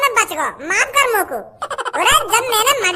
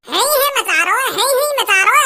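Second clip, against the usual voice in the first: mock sobbing. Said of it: "रोने का ढोंग".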